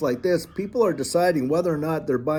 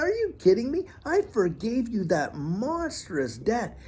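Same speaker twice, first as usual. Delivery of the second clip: hammed-up royal rebuke, half-disbelieving; mock outraged king; 3 semitones higher than usual. The king scolds the unmerciful servant, in mock outrage. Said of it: "he calls the guy back and says".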